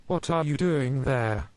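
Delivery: put-on high, slow child voice; confused little boy. A narrator's reading. Max asking his mother in the bedroom, high and slow. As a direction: ask it slowly, wide-eyed.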